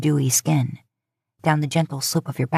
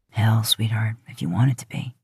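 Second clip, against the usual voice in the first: Dean's voice; 6 semitones lower than usual. Acted. Dean answers her, deep voice.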